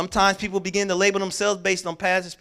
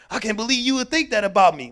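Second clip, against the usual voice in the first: mock offended protest; 4 semitones higher, 8 dB louder than usual.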